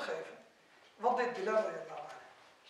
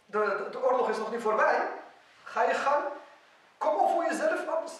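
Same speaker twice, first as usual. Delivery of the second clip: defiant challenge; 3 semitones higher, 5 dB louder than usual. Retold or imitated. Acted quote, defiant challenge to Abdurrahman.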